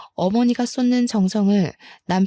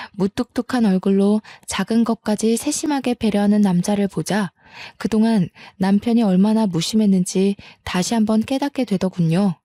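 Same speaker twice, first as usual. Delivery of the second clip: ordinary delivery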